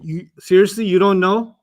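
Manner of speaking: "seriously" pressed, accusing; incriminating disbelief. Shown as a demonstration. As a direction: corner the other. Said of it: "you're incriminating somebody".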